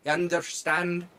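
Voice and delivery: put-on Irish accent. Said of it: "I got a little Scottish there".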